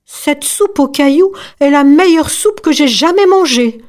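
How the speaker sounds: high, emphatic rave review; excited exclamation. A narrator's reading. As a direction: exclaim it as an enthusiastic diner. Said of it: "s'exclama le chien".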